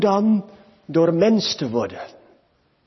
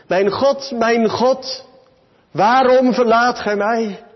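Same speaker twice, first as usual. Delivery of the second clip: loud, higher cry to God, building; uitroep van verlatenheid; 6 semitones higher, 4 dB louder than usual. Acted. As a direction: cry out as one forsaken, rising in force. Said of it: "van God en de mensen verlaten, geroepen". (luide, verlaten roep)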